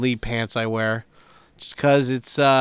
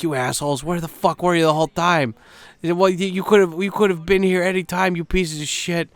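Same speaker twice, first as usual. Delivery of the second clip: mock angry rant, pitched higher; seething; 5 semitones higher than usual. Grumbling at the people lining up late, seething. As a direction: play at fuming without really shouting. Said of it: "just getting angry".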